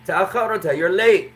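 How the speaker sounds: mock telling-off of a latecomer; scolding teacher. Teacher to a late student, light mock scolding. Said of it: "the teacher says".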